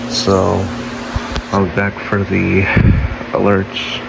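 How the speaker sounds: groggy, under the weather. Real, not acted. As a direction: sound a bit sick and groggy. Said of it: "excuse my groggy sounding voice for today".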